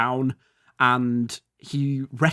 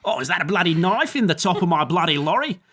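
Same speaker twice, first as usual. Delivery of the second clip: put-on Australian accent; 3 semitones higher than usual. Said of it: "they're Australian for some reason".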